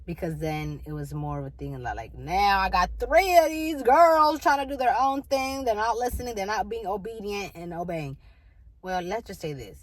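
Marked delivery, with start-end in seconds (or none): 2.1-8.2 mock parental complaint. Voicing father complaining about his daughters.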